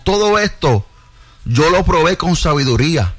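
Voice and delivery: slow scripture reading. Real, not acted. Reads Solomon's words to the congregation, measured reading. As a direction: read it out deliberately, phrase by phrase. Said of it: "los voy a leer despacio".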